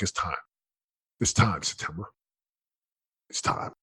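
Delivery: low, hushed call with long pauses; inner voice. Retold or imitated. Inner voice calling him to move on, low and hushed. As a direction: speak softly and low, like a voice inside. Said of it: "And the voice, I call it the voice".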